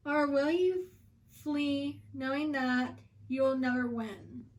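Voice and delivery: measured poem reading, pausing after each phrase; poem recitation. Acted. Witch challenges a street magician, poem recitation.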